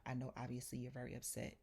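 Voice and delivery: quiet, measured appeal; retold calming voice. Imitating the landlord calming her down, soft and steady.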